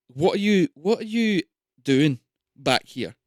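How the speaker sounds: guard confronting. Acted. Guards confronting the party behind the train, loud. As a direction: demand answers like a caught-out sentry.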